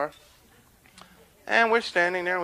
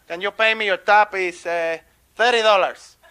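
Pablo; 4 semitones higher, 7 dB louder than usual. Acted. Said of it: "Pablo's starting to close up".

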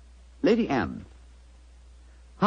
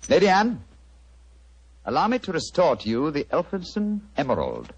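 triumphant reveal; 3 semitones higher than usual. Acted. Holmes presents the recovered emerald, triumphant. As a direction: announce it like a conjurer's finale.

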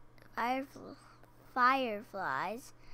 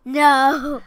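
emphatic no; 3 semitones higher, 13 dB louder than usual. Real, not acted. Child answers loudly.

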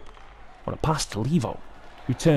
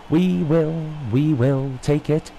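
excited relief; 5 semitones higher, much slower than usual. Real, not acted. Relieved celebration after goal.

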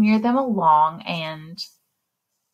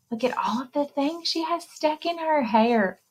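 hushed unvoiced whisper, a touch higher; 5 semitones higher, 5 dB quieter than usual. Librarian whispering to the children about the cover. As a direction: share a secret wonder in a whisper.

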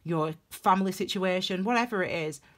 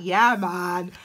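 loud, pumped-up acted cheer; eager hype; 7 dB louder than usual. Tarot reader replays welcoming a new beginning, loud and fired-up. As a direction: belt it out, raring to go. Acts out own eager reaction to crisis.

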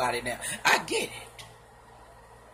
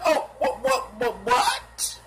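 mock disbelief; 4 semitones higher, slower than usual. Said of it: "Six nine like".

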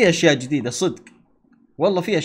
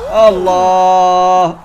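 long drawn-out wow; 8 dB louder, much slower than usual. Real, not acted. Amazed at the game.

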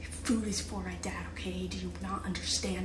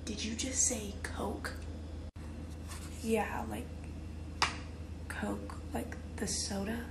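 hushed secretive whisper. Acted. Whispered McDonald's order joke.

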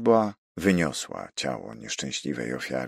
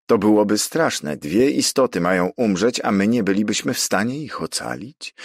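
high, loud cry of dismay; exclamation; 6 semitones higher, 5 dB louder than usual. A narrator's reading. Don Luis fearing two people will die, exclaiming. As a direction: call it out, appalled. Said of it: "zawołał Don Luis".

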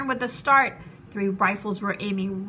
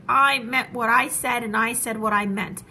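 determined elephant; 4 dB louder than usual. Acted. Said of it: "continued to say".

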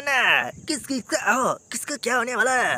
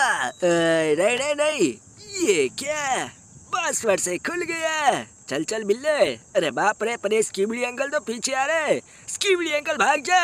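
panicky cartoon figure. Character fleeing Skibidi uncle with Billa, panicky cartoon voice. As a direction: blurt it out as a chased cartoon character. Figure flees the toilet monster.

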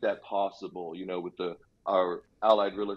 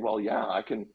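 put-on Jamaican accent. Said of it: "I don't know why I'm slipping into this Jamaican accent".

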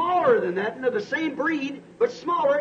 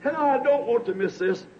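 imitated prayer; 3 semitones higher than usual. Preacher acting out his prayer in the hills, pleading then hushed. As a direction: plead with God, ending hushed.

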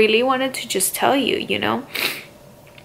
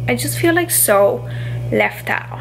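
fighting back real tears while telling her followers; holding back tears; 2 semitones higher than usual. Real, not acted. Vlogger to her followers, missing family, fighting back tears. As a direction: voice catching, close to tears, last words breathy. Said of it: "I'm gonna cry".

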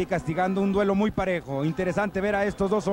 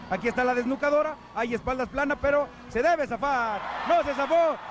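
higher excited call of the pin; wrestling commentator; 5 semitones higher than usual. Real, not acted. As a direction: build then groan at the loss. Commentator calls near pin, then finish.

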